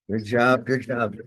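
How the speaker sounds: loud, punchy encouragement; shouted praise. Real, not acted. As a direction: shout it across the gym. Coach praising fighter mid-drill.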